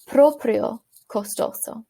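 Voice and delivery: "proprio costoso" said slowly, word by word; slow model pronunciation. Shown as a demonstration.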